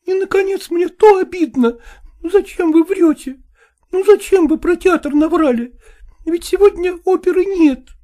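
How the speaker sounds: high, reproachful woman's voice; jealous wife. A narrator's reading. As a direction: accuse him in a high woman's voice. (высокий упрёк ревнивой жены)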